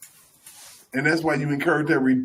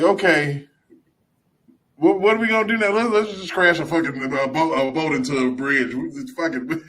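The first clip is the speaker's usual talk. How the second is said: scheming officials; 3 dB louder than usual. Retold or imitated. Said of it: "Be like".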